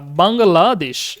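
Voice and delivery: বাংলাদেশ drawn out slowly; spelled-out pronunciation. Shown as a demonstration. Teacher showing students a written form, slow careful pronunciation. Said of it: "এভাবে লেখা".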